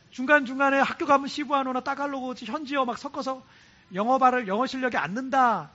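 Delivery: mildly grumbling student; retold complaining. Students grumbling about classes at school, retold complaining. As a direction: imitate kids griping about school. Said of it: "불평하는 애들이 있어요".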